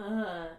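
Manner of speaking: imitated grunt. Shown as a demonstration. Asking a friend about the sketch, imitated grunt. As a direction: grunt it like a wordless reply. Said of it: "if you were taking that".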